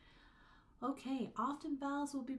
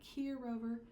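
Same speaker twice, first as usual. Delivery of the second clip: calling the dog; 3 semitones higher than usual. Shown as a demonstration. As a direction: call Rover in from the doorstep. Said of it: "you're calling your dog in".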